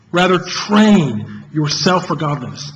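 slow recital with train stressed most; stressed recitation. Shown as a demonstration. Preacher showing the congregation how to recite, slow and stressing train. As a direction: recite slowly and weigh each word, train above all. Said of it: "each time emphasizing a different word".

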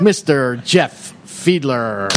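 slow announcer build; AM radio voice. Real, not acted. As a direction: draw the name out like an emcee. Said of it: "There's my A M radio voice".

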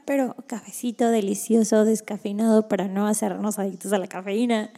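talking just after a sip of coffee; while sipping a drink. Real, not acted. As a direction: speak around a mouthful of coffee. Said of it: "me voy a tomar un traguito de mi coffee". (hablando mientras toma un sorbo de café)

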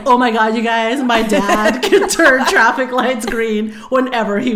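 hammed-up childish excitement; imitating excited bragging kid. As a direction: announce amazing news to the whole class.

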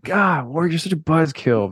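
high-pitched playful whine of complaint; mock exasperation. To the cautious friend spoiling the fun, mock exasperated. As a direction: groan at the killjoy in mock frustration.

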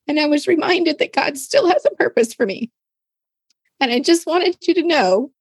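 high, hushed, close to tears; a breaking whisper, fighting back tears; tearful retelling. Retold or imitated. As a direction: read the message as the tears come. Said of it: "getting all emotional about it".

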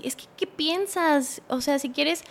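mock yell. Boyfriend berates her at his house, stifled mock yelling. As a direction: imitate his yelling without real force. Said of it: "me empezó a gritar".

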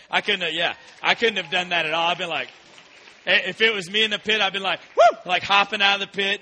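loud, excited, as if escaping the pit; picture yourself bolting from the stinging pit. Pretend. Preacher to youth group, imagining escape, loud and excited.

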